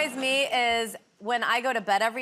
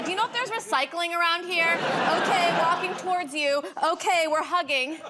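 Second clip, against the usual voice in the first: higher-pitched running commentary, each update opened with "Okay"; mock play-by-play texting; 4 semitones higher than usual. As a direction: report every tiny step as a perky bulletin. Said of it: "play-by-play texting".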